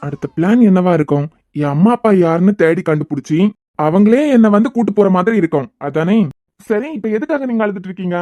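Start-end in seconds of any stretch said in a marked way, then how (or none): 0.1-6.2 sarcastic. Acted. Sarcastic guess at her plan.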